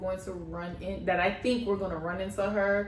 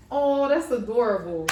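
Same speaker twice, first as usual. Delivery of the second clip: mock fake-sweet friend; 4 dB louder than usual. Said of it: "That same friend was like".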